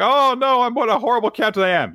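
high, loud, fast mock despair; hammed-up lament. Mocking the captain's self-pity, hammed-up high wail. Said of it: "So it's like".

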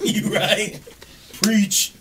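giggling "you right"; laughing agreement. Real, not acted.

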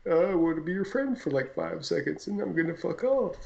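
lightly voiced lazy bumblebee; a hint of a carefree, drifting bee. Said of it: "Is that your bumblebee impression?".

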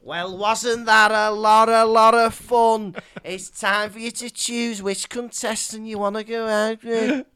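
Cilla Black. Retold or imitated. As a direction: ham up a TV host. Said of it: "I was being Cilla Black".

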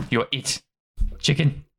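a hint of a small creature voice; playful pup. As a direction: tease like a pup playing tag. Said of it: "And he's like".

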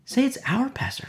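laughing through the repeat; chuckling repeat to the congregation. Real, not acted.

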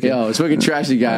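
hammed-up Boston "wicked trashy guy"; Boston accent. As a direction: lean into Boston, "wicked" with a dropped r. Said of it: "Just say wicked".

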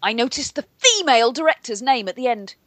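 sit up straight and recite it with bitter outrage; rigid-shouldered resentment. Retold or imitated. Cohost reading an angry movie review, stiff and resentful. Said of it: "rigid-shouldered resentment".

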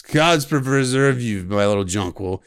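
put-on slow, creepy drunken fool. Drunk fool leering at the young girl, slow and creepy. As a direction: drag it out like a sloppy drunk leering. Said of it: "attempts creepiness".

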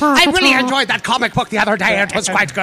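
put-on Cockshire accent. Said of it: "it's a Cockshire accent".

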